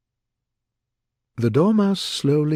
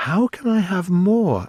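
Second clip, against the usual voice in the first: higher-pitched, offended question; 10 semitones higher, 4 dB louder than usual. A narrator's reading. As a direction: take umbrage. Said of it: "asked in an offended tone".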